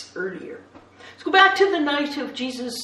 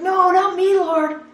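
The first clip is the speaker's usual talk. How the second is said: loud, higher insistent denial; indignant protest; 9 semitones higher, 8 dB louder than usual. Acted. Peter to Jesus, loud insistent denial. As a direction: protest hard that you never would.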